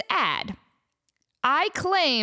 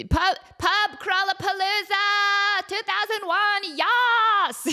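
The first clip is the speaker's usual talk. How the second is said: put-on party girl voice; 9 semitones higher, slower than usual. Mock party album name.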